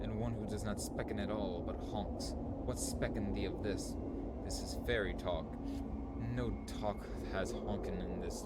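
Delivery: hammed-up mock Shakespearean tree talk; archaic fairy-tale voices. Voicing the woodcutter and tree in archaic speech. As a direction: play both woodcutter and trees in old speech. Voicing trees in a dream quest.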